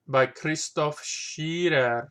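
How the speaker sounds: names drawn out very slowly in a mock German accent; fake German accent. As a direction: play it as a put-on German accent, slow and deliberate. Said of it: "pronouncing it with a fake German accent".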